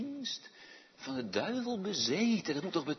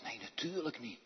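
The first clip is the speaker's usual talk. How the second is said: hushed aside; 2 semitones lower, 7 dB quieter than usual. Real, not acted. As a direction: drop it softly, half whispered. Hushed aside after whispered demo.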